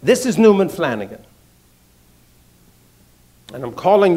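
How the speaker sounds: a lightly done South Boston Irish brogue, official and firm. Retold or imitated. The district attorney tells the doctor he is indicted, light South Boston Irish brogue. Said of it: "South Boston Irish brogue".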